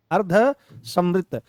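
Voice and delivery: अर्धसमृत said very slowly, each syllable separate; careful pronunciation. Shown as a demonstration. Teacher repeats अर्धसमृत for the class, slow and careful. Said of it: "इनका उच्चारण भी बहुत अच्छे से किया करो".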